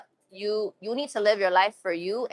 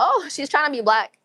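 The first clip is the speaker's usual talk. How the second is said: mock critic; 5 semitones higher than usual. Streamer quoting people who judge the accent, mock critic. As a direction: imitate a tutting critic. Mimicking what some critics say.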